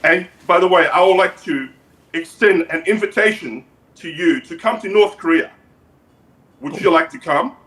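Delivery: put-on measured, accented dictator voice; North Korean leader character. North Korean leader invites the guest over, measured dictator voice. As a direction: play a dictator making a formal invitation.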